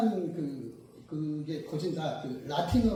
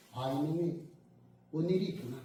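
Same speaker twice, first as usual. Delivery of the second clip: softer, low musing; understanding father; 4 semitones lower, 4 dB quieter than usual. Retold or imitated. God as father noticing a child's trouble, soft and low.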